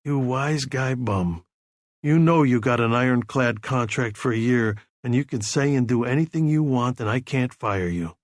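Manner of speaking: affectionate. Acted. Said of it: "said affectionately".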